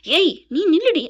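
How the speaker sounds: retold yell. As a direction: call out a sharp order, acting it. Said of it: "அப்படின்னு கோமதி கத்துறாங்க".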